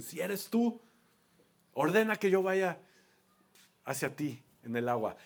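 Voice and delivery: Pedro dudoso, tú más agudo; doubtful Peter. Retold or imitated. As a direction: dilo como quien duda y pone a prueba. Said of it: "el que le dice". (Pedro desafiando a Jesús, con duda)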